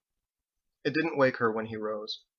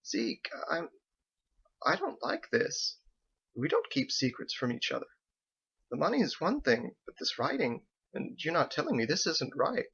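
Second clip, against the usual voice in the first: softer, hushed and worried; uneasy fear; 3 semitones higher, 5 dB quieter than usual. Acted. Wife telling husband his secrets scare her, hushed.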